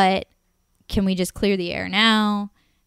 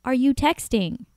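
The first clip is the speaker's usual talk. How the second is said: sharp high demanding question, louder; retold angry question; 6 semitones higher, 4 dB louder than usual. Woman retelling confronting her date at dinner, sharp and indignant. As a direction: confront him, pitch spiking on the second who. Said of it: "So I'm like".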